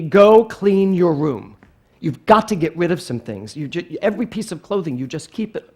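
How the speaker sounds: lightly voiced exasperated mom; scolding mother. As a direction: nag a child to tidy up, starting loud. Mother scolds child in story.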